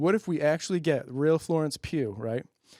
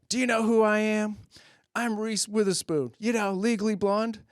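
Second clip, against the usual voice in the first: entitled celebrity; 7 semitones higher than usual. Retold or imitated.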